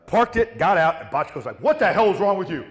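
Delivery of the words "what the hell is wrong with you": high, loud furious telling-off; a producer's high, loud furious scolding; angry yell. Retold or imitated. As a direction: yell it high at the reckless driver. The producer yelling at him.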